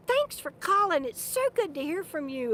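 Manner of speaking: bright, high happy greeting, lightly imitated; cheerful sister. Mimicking her sister's cheerful phone greeting. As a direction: chirp it the way a sweet, forgetful sister would.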